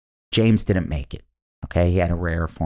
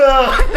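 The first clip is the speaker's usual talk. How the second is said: loud, high mock groan; a whole crowd's groan, hammed up; imitated audience groan; 8 dB louder than usual. Comic imitating everybody at the memorial, loud groan. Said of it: "You hear everybody go".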